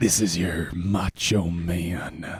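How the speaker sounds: very low, slow, stretched-out sensual voice. Opening the episode to everybody: sensual Macho Man Randy Savage voice. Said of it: "like a Macho Man Randy Savage, but a little orgasmic".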